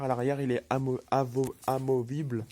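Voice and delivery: thick-tongued, tripping over syllables; talking with a swollen bitten tongue. Real, not acted. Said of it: "j'ai un peu la langue, enflée". (langue enflée, mots qui accrochent)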